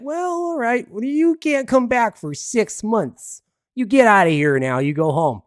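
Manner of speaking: high, drawn-out indulgent scolding, then loud; hammed-up telling-off, starting high and stretched out; mock scolding official. Border official sending a thief home for six months, mock scolding.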